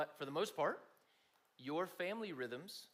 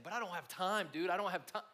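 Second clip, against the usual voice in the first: raised, whiny excuse voice; inner excuse voice; 4 semitones higher, 5 dB louder than usual. Retold or imitated. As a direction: plead that you have no time. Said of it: "this little voice in the back of your head is saying".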